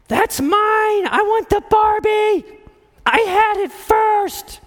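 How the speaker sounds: put-on high, loud whiny child shouting; bratty little girl. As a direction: shout like a squabbling seven-year-old girl. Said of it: "all I heard from the other room was".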